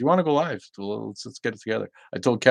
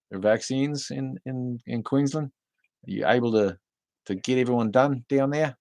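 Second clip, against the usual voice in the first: lightly mimicked, higher-pitched Australian; Australian accent; 6 semitones higher than usual. Asking a Queensland viewer about vaccines, light Australian accent. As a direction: put on a hint of Australian. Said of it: "I don't hear Australian very much anymore".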